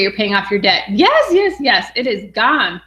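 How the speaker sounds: ordinary talk, nothing marked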